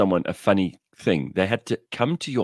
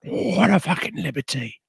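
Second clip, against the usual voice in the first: put-on high, indignant Cockney old lady; Cockney Nan catchphrase; 11 semitones higher than usual. Quoting the Nan's catchphrase to a friend, high and indignant. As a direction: squawk the Nan's catchphrase higher. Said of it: "her takeaway line is always".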